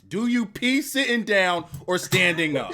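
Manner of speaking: laughing question. Real, not acted. Host's cheeky question to guest.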